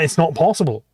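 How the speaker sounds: ordinary talk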